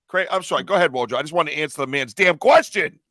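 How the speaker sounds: mildly yelled protest; real yelling. Real, not acted. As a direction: insist on it, voice building at the end. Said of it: "stop yelling at me".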